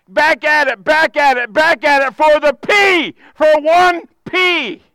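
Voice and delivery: rising from firm to a shouted climax; building shout. Acted.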